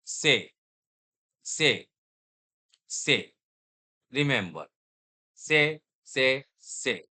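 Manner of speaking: से said as a short, clear drill syllable; से modelled like a language teacher; French il sound. Shown as a demonstration. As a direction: drill से slowly for the class. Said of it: "आप French में क्या बोलोगे?".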